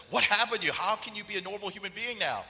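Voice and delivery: high, loud mock amazement; astonished, starting with a burst; incredulous questioning. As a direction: press him for an explanation. Retold astonished question to friend.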